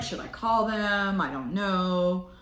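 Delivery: slow, drawn-out indecision; hesitant musing. Retold or imitated. Person wondering whether to call, slowly torn. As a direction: let it trail off unsure. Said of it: "this is like".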